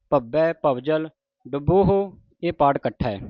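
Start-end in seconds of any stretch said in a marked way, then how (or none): 0.1-0.5 ਭੱਬੈ with a firm doubled b; tightly pressed consonant. Shown as a demonstration. Teacher demonstrates for congregation, ਭੱਬੈ with tight doubled b. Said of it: "ਭੱਬੈ ਕੱਸ ਕੇ ਬੋਲਣਾ ਹੈ".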